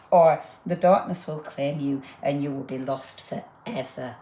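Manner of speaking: lightly hammed-up ominous narrator voice; a hint of a mock-sinister storyteller; spooky reading. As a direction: read it like a creepy horror trailer. Reads a spooky sticker sentiment.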